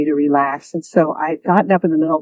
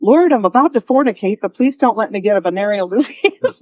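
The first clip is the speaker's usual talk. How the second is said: mock prayer; 3 semitones higher than usual. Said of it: "almost like saying".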